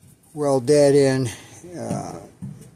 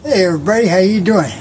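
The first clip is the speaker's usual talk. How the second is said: panting, pushing words out; breathless and loud after work; out of breath; 4 semitones higher, 4 dB louder, faster than usual. Real, not acted. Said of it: "I'm out of breath".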